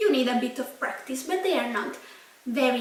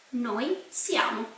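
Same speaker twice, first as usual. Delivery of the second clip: slow repeat; 3 dB quieter than usual. Shown as a demonstration. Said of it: "We are".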